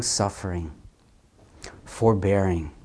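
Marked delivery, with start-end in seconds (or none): none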